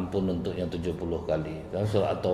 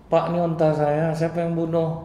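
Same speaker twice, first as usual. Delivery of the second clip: put-on raised, demanding young man's voice; the owner demands who killed his camel, higher; 8 semitones higher than usual. A young owner confronting the farmer, demanding.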